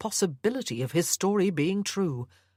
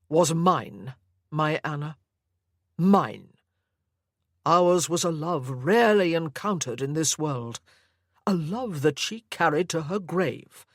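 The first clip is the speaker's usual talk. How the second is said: lightly voiced possessive old man, louder, pleading; a hint of a doting, controlling grandfather; obsessive old grandfather; 4 dB louder than usual. Sir Lovett speaks to Anna.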